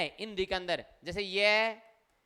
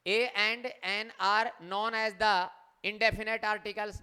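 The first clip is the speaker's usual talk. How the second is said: slow reading aloud; much slower than usual. Shown as a demonstration. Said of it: "teacher reads rule slowly".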